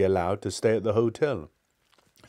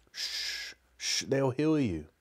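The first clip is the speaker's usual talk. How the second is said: hushed warning; 3 semitones higher, 5 dB quieter, slower than usual. Acted. Hushing companion in dialogue.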